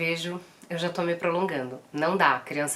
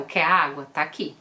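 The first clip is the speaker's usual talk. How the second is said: ordinary talk, nothing marked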